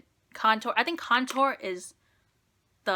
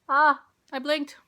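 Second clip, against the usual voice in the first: loud, high yelps of real pain; ouch, got my own eye; pained outcry; 6 semitones higher, 7 dB louder than usual. Real, not acted. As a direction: cry out as the eye stings. Eyeliner poked into her eye.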